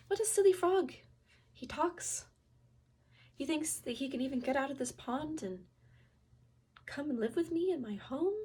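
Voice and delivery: high, loud, scoffing disbelief; scornful thought. Acted. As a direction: scoff at the silly talking frog.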